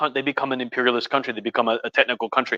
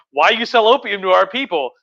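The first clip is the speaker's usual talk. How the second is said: raised, higher-pitched complaint; play-indignant demand, pitched up; mock indignant protest; 6 semitones higher than usual. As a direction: act out an outraged objection. Acted protest of the Chinese.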